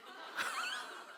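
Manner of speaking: a shrieking high laugh; high squeal of laughter. Real, not acted. Lecturer squealing with laughter at the child's line. Audience-style laughter at punchline.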